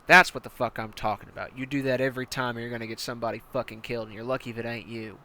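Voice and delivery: hard-nosed commander barking orders at a recruit; menacing armored battalion commander; tank commander. Acted. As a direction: lean in like a brutal drill sergeant. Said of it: "And he goes".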